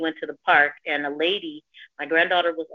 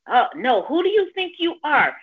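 high-pitched indignant mimicry; affronted challenge, swooping much higher; retold yelling; 9 semitones higher, 4 dB louder than usual. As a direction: imitate an offended man telling someone off. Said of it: "He's yelling at me".

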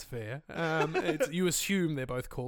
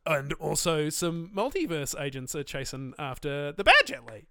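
sung dramatic trailer line; movie trailer voice; 4 dB louder than usual. Shown as a demonstration. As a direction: croon it like a trailer. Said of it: "I'm gonna try and do my best movie voice, uh, impression".

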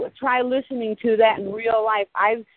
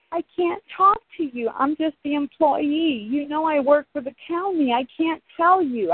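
retold lawyer voice, higher and babyish; whiny little baby; 5 semitones higher than usual. Lawyer on the phone backing down, mocked as a whimpering baby. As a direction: mimic a grown man whimpering like an infant. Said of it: "He started sounding like a little baby".

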